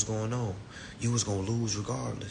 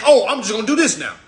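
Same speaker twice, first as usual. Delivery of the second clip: laughing mockery; 10 semitones higher, 11 dB louder than usual. Mocking scattered students.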